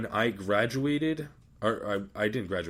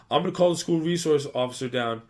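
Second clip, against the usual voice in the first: raised, higher stern officer's voice; mock stern threat; 6 semitones higher, 6 dB louder, faster than usual. Sergeant major threatens to call the officer, raised mock-stern voice. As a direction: threaten to fetch the school officer.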